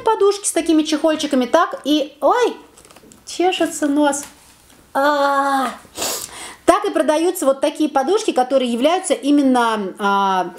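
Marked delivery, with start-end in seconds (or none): none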